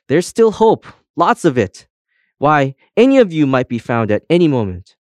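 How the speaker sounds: rally the downhearted with hope; bright-eyed insistence, punched up high; hopeful pep talk. A narrator's reading.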